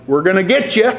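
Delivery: teasing war-party jeer, half-hearted; mock taunt. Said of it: "They didn't go around the city going".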